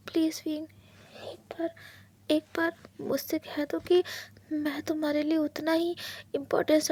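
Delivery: hushed, hurt husband begging for an answer; husband begging his partner not to leave; pleading husband. Acted. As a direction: plead softly, close to tears. Wang's pleading lines.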